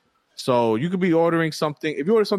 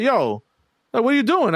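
pitched way up, louder, exasperated; retold angry complaint; 11 semitones higher, 3 dB louder than usual. Complaining to the delivery guy, exasperated and high-pitched. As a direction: demand an answer, fed up and high.

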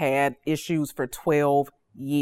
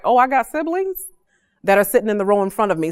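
surprised; 2 semitones higher, faster than usual. Retold or imitated. Preacher retelling finding siblings at her father's funeral, surprised. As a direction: relive the shock of finding siblings.

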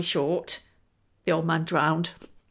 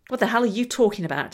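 louder, fast indignant demand; angry demand; 4 semitones higher, 4 dB louder, faster than usual. Acted. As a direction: fire the question back at God. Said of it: "demanded the old man".

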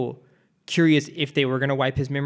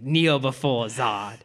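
very slow, drawn-out kneel command; slow Zod quote; much slower than usual. Retold or imitated. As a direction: stretch each word like a taunt. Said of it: "He's like".

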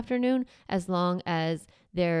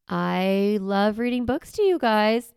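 demo parent voice; 2 semitones higher, 6 dB louder, slower than usual. Shown as a demonstration. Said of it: "This is my example".

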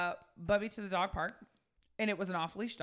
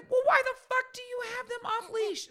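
retold outrage; 4 dB louder than usual. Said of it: "I was said".

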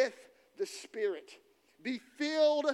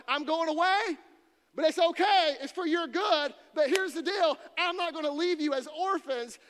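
Jesus reassuring disciples; 3 semitones higher, 6 dB louder than usual. Acted. Preacher voicing Jesus telling his disciples he is going away, loud and earnest. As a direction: call out to the disciples like a friend leaving.

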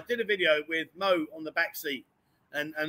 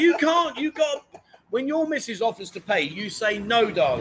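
indignant. Real, not acted. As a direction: push back hard, pitched up. Arguing with co-host.

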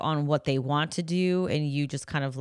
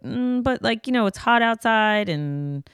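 pleading parent; 3 semitones higher than usual. Retold or imitated. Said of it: "we're like".

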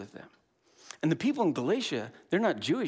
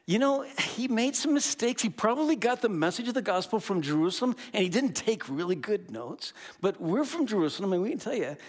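mock Judaizers; 5 semitones higher than usual. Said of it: "they said to all the Gentiles".

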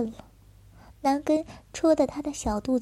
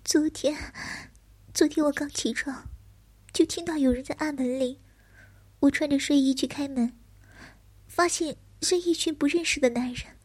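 higher, hesitant fearful telling; frightened young man; 3 semitones higher than usual. Acted. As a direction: recount it timidly, voice raised.

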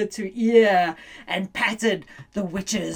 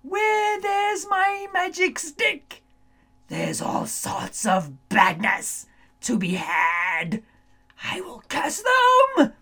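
scheming witch; 5 semitones higher than usual. Acted. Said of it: "the witch said".

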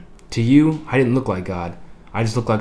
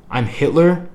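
appalled; 7 semitones higher, 4 dB louder, slower than usual. A narrator's reading. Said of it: "you said, appalled".

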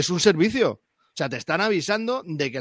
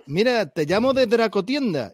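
a badly faked Andalusian accent, a bit higher; mock Andalusian accent; 4 semitones higher than usual. A player imitates the shop clerk calling him on the phone, in a bad Andalusian accent. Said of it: "qué mala imitación de acentos".

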